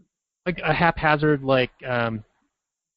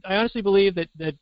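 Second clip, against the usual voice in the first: earnest pageant contestant voice, a bit higher; sincere beauty queen answer; 4 semitones higher than usual. Retold or imitated. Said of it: "Miss South Carolina".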